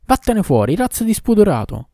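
angry high shout; furious shout. Acted. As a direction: yell it out, high and loud. Character yells to throw him out.

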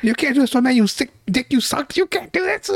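high, hammed-up outraged cry; Keanu Reeves. Friend replays the betrayed husband's rant, high mock scream. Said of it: "Keanu Reeves screaming".

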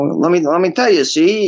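lightly voiced twenties wise guy; a touch of cartoony old-time speak; slightly overdone 1920s patter; 1920s fast-talker. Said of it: "that very fast kind of speak".

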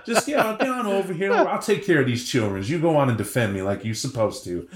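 a hint of a cooing mother figure; lightly mock soothing, like hushing a child; coddling mother. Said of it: "not Gaia sitting around going".

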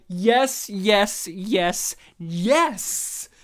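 reliving an excited reaction; excited cheering. Retold or imitated. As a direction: punch each yes like cheering at the screen. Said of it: "pointing to the screen, going".

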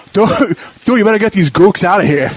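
amused mock-indignant movie-star impression; Mark Wahlberg. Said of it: "pretty sweet Mark Wahlberg impression".

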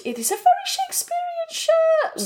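mock the Shakespearean shirt in a lofty squeak; high mock-posh voice. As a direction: friend teasing her shirt, high mock-grand voice. Teasing the flowy shirt.

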